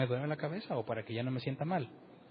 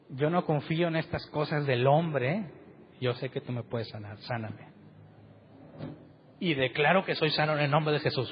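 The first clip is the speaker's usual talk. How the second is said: mock fervent prayer. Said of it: "Así oraba yo".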